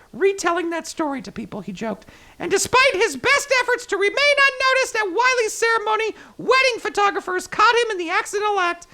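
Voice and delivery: lively, storytelling article read; news story read. Acted. Host reading wedding mix-up article to listeners, news story read.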